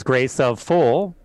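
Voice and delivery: slow, lightly voiced demon garbling the words; mocking demon. Priest retelling the demon mocking him, slow taunting voice. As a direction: drag it out, twisting the prayer. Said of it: "the demon looked at me and laughed and goes".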